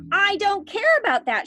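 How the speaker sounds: high, loud spoilt demand; shouted demand. A narrator's reading. Veruca Salt demanding a squirrel from Mummy, loud. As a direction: yell it like a brat. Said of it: "shouted Veruca".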